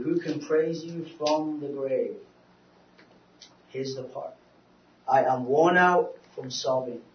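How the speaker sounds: earnest psalm reading, slowing down as the grief verses come; scripture reading. Acted. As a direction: read the psalm aloud like a plea to the Lord. Reads Psalm six aloud.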